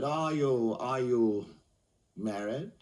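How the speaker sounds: lightly voiced pompous barrister; pompous counsel. Counsel questioning a little fellow in court, mildly pompous. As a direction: question a witness with self-importance. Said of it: "a rather pompous counsel".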